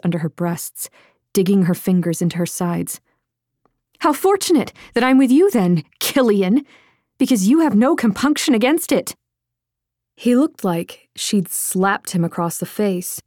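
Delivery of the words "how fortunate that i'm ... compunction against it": higher, sarcastic barb aimed to wound; sweetly cruel jab; biting sarcasm. Acted. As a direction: Lydia mocks Killian for killing, higher and sarcastic. Cutting jab in the quarrel.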